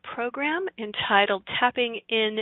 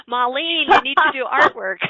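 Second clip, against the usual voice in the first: calling out; 5 semitones higher, 11 dB louder than usual. Retold or imitated. Messages calling to Marlene.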